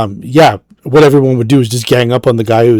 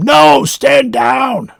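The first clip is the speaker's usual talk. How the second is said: very high, ragged, rough scream; 13 semitones higher than usual. As an arrow ricochets off a building, Fagin screaming to another character. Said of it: "And Fagin screams to him".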